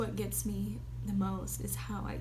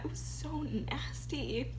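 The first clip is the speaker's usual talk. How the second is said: tearful whisper; 3 dB quieter, slower than usual. Real, not acted. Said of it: "my voice gets all crackly".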